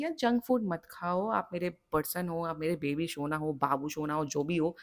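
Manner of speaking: loving way. Shown as a demonstration. Tarot reader shows the loving way to warn a partner, softly coaxing. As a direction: gently talk a partner out of junk food. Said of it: "प्यार से समझा के बात करना".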